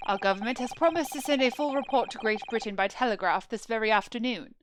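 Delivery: measured, formal courtroom announcement; a hint of a solemn judge; lightly voiced presiding official. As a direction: address the court with quiet authority. Plays official presiding over the trial.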